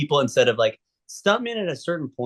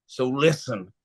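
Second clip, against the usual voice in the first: lightly voiced secretive stuntman, leaning in; 2 semitones lower than usual. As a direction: let him into a secret, mildly hushed. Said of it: "like, all secretive".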